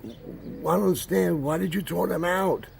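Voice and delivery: high-pitched mock outraged rant; hammed-up shrieky interrogation, climbing high; imitated yelling. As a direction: mimic a distraught girl yelling in protest. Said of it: "she started yelling at my grandmother".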